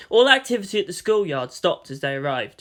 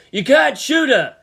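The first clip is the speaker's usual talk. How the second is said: louder, higher, slow urgent yell; Toji shouting; 8 semitones higher, 8 dB louder than usual. A narrator's reading. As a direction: stop your friend from firing. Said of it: "Suzuhara shouted as well".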